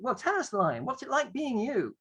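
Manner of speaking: teacher in role. Acted. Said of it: "teacher can then press the translation".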